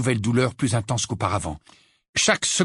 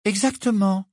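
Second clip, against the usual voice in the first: joyeux; 9 semitones higher than usual. Acted. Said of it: "avec un sourire joyeux".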